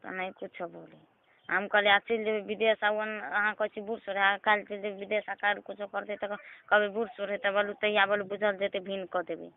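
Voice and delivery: normal talking voice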